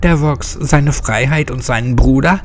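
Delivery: rally the others to fight; fired up. Acted. Hexe pitches her revenge plan to her friends, eager and combative.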